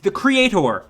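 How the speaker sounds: "creator" ending in a full "-tor"; odd pronunciation. Real, not acted. Reviewer naming Flynn's role, "creator" with a full -tor ending. Says creator oddly, then normally.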